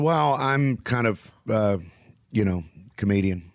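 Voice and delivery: slow, unsure admission of the job; hesitant mumble. Retold or imitated. Embarrassed comedian halting as he names his job. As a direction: trail off, halting, reluctant. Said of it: "I don't like telling people".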